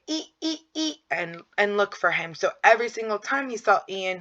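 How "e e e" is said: put-on much higher, small toddler calls; child calling out; imitating a toddler. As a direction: mimic a little boy calling his brother. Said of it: "and he would say".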